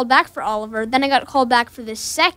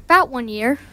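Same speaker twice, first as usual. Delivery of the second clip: British accent. Real, not acted. Young Artful Dodger actor answering the interviewer, British accent. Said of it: "where did you learn this British accent".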